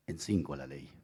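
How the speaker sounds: breathy whisper of a small confession; whispered aside. Real, not acted. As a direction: let it slip out in a whisper. Confesión en voz baja. (susurrando, casi para sí)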